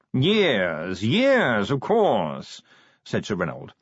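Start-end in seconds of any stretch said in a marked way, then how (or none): 0.1-2.6 posh yawning voice. Acted. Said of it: "modulated yawning".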